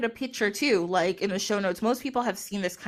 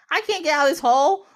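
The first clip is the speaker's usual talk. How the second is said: pleading; 7 semitones higher, 6 dB louder than usual. Acted. Trapped leopard pleads.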